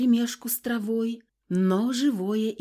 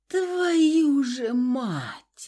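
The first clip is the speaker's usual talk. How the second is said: very slow, pained groaning oath; mild moaned swearing; moaning curse; 6 semitones higher, much slower than usual. A narrator's reading. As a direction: drag the curse out through the pain. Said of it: "простонала я".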